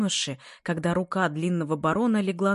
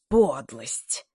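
mild furious repeat; 3 semitones lower, 4 dB louder than usual. A narrator's reading. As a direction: lower but louder bitter repeat of подлость. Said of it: "взвизгнул вне себя Нед".

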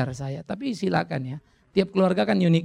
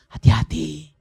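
a firm, slightly raised warning; 5 dB louder, slower than usual. Acted. Pastor warning fathers about an easy life, firm warning. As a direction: call out the caution once, firmly.

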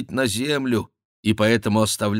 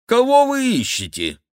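much higher monk's voice; querying monk; 4 dB louder than usual. A narrator's reading. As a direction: ask in a high monk's voice. (высокий голос вопрошающего монаха)

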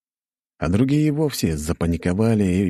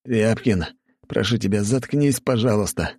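moaning plea; 5 semitones higher than usual. Acted. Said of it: "простонал другой".

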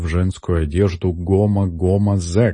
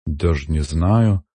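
slow, hesitant doubt; unsure, drawn out; doubtful. Acted. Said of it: "засомневался парень". (с сомнением)

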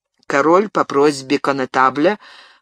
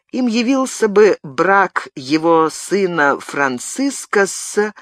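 slowing, then the voice breaks off mid phrase; voice breaking off; 3 semitones higher, slower than usual. Acted. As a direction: falter and stop short, voice failing. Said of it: "Голос у него пресёкся".

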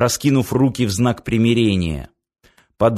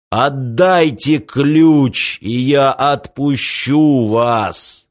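slow, ominous villain demand; a lightly voiced sinister giant; booming echoing villain monologue; much slower than usual. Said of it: "гремел над сводами зала зловещий голос".

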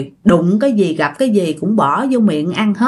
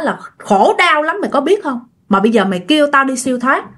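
angry ghost voice; 4 semitones higher than usual. Acted. Ghost rebukes ritual master.

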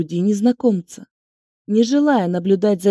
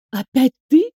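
scornful, loud and high; annoyed scorn; 5 semitones higher, 4 dB louder than usual. A narrator's reading. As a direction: sneer it at her. Inga annoyed at heroine.

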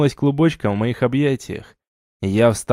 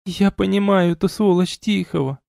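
higher, mild tearful catch; a touch of sobbing in a raised voice; understated weeping woman; 8 semitones higher than usual. A narrator's reading. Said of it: "всхлипнула Магиня".

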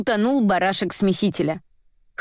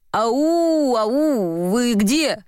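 calling out; 3 semitones higher, much slower than usual. A narrator's reading. Courier looking for Varvara in her flat, calling out. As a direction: call through an unfamiliar flat.

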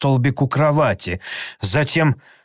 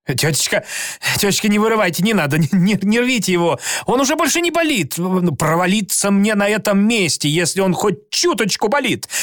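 high, frantic begging; pleading; 7 semitones higher than usual. A narrator's reading. Tom begging his aunt not to pull his tooth, high and frantic. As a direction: plead desperately, pitch climbing.

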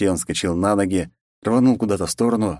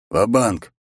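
a lightly voiced, punchy all-in call; going all in; 3 semitones higher than usual. Zaruba pushes all in, lightly voiced punchy call. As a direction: slam the bet down with your voice.

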